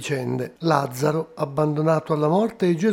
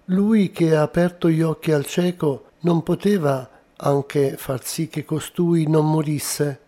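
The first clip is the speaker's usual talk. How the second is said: measured, solemn scripture reading; liturgical reading. Acted. Priest reading the Gospel of Lazarus to the congregation, solemn and measured. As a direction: read the Gospel aloud with calm gravity. Gospel read aloud before homily.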